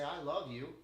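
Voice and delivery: understated sarcasm on "I love you"; sarcastic. Shown as a demonstration. Showing that tone changes the meaning, sarcastic. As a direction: say "I love you" with a rude edge, lightly done. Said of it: "I'm being fucking sarcastic".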